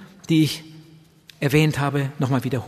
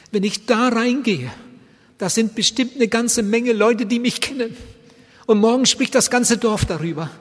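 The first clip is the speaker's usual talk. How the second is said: higher, louder anxious plea; husband explaining his fear, higher and louder; urgent pleading; 8 semitones higher, 5 dB louder than usual. Retold or imitated. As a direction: push it out in fearful urgency. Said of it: "richtig angefleht".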